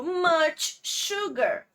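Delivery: much sugar said slowly, each sound clear; slow English example. Shown as a demonstration. Teacher slowly models "much sugar" for Brazilian students. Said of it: "Por exemplo".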